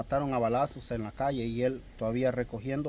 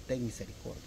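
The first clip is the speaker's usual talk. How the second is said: "Ten misericordia" said softer, like a quiet prayer; reverent plea; 3 semitones lower, 9 dB quieter than usual. Shown as a demonstration. Believer quietly praying "Ten misericordia" to God. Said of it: "esa es la única palabra que nosotros podemos decir".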